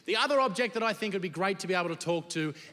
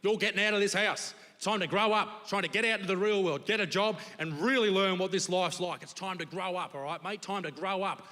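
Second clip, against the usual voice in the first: tough dad; 3 semitones higher than usual. Retold or imitated. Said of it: "Dad tried to be the He-Man".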